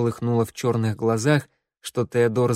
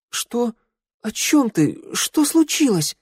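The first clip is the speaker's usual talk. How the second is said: alarmed confusion; 12 semitones higher, slower than usual. Acted. Girl bewildered by crying friend.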